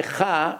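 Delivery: "cha" scraped in the mouth like chaf; slow mouth-made "cha". Shown as a demonstration. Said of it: "but it comes from the mouth".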